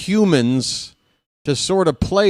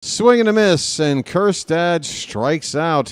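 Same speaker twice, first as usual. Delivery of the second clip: excited strikeout call; 4 semitones higher, slower than usual. Real, not acted. Announcer calling a strikeout to the fans, excited and rising.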